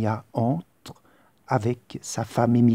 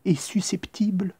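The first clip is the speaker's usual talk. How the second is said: whisper; 9 semitones higher than usual. Acted. Warning ends in whisper.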